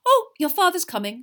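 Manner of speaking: high, loud, sudden realisation; sudden exclamation. A narrator's reading. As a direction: break off with a startled announcement. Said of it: "she said suddenly".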